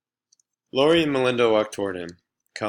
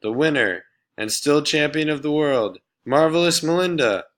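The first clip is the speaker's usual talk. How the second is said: higher, louder ring-announcer proclamation; bellowed; 7 semitones higher, 6 dB louder than usual. Acted. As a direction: announce the champion to the crowd. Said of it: "she bellowed".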